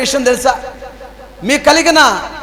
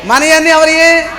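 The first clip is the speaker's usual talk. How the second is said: slower, raised call to the crowd; louder; 3 semitones higher than usual. Shown as a demonstration. Preacher urges the congregation to answer, louder call. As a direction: push it out loud for the whole church. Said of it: "ఇప్పుడు చెప్పండి గట్టిగా అమ్మా".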